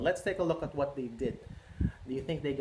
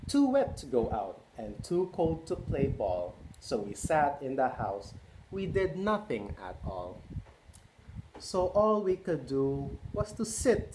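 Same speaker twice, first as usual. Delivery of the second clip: storybook read-aloud. A narrator's reading. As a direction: read it like bedtime story time. Reading picture book to kids.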